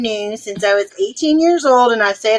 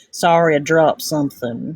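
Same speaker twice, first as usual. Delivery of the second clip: mock American accent, lower pitched; 7 semitones lower than usual. Repeating the other speaker's line after saying it sounded American: imitating an American accent. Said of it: "That sounded real American".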